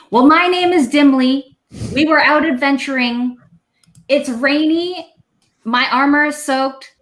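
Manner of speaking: Dimly the dwarf. Acted. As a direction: boom it out like a soggy, itchy dwarf. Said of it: "he says".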